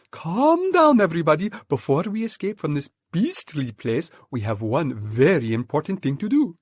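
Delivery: rally the troop with firm excitement; the monkey father calming his family; Mugglewump's voice. Acted.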